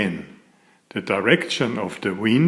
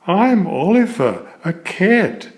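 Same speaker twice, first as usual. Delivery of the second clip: cat voice; 6 semitones higher than usual. Acted. Cat introduces himself in story.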